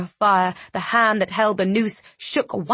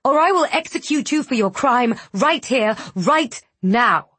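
raised, threatening shout; 4 semitones higher than usual. Acted. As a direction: threaten at full voice. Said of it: "she shouted".

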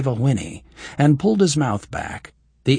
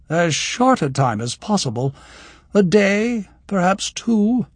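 scornful; 8 semitones higher than usual. A narrator's reading. Scornful noblewoman answers.

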